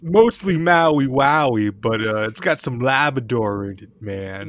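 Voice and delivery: lightly voiced stoner; stoner quote. Stoner telling his buddy what's in the joint, lightly drawled. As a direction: stretch it out like a stoned guy.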